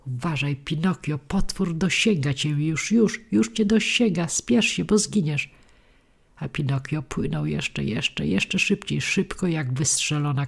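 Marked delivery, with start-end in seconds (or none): 0.1-5.5 urgent shout, climbing as the danger closes in; urgent warning call. Acted. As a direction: yell a frantic warning across the water. Crab calls warning to fleeing Pinocchio.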